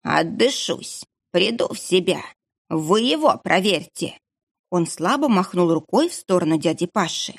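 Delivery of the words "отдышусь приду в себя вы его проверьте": breathless rasp. Acted. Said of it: "прохрипел он".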